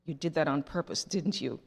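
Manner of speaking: low, softened voice for a secret; mock whisper. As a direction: lightly suggest a whisper, still voiced. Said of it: "walks over to Susie and whispers".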